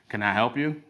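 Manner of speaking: lightly put-on southern twang. Gas station attendant greeting a driver, southern twang. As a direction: help a customer with a touch of southern twang. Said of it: "in this southern twang".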